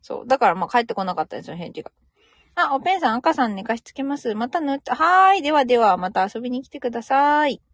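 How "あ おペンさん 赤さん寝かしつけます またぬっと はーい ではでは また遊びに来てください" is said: cheery send-off. Real, not acted. Signing off to a live viewer.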